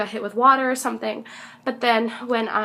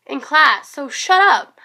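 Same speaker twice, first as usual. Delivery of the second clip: higher, louder teasing scold; a hint of a singer scolding the crowd; mock stern shout; 5 semitones higher, 4 dB louder than usual. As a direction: scold the crowd like a playful teacher. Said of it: "he was like".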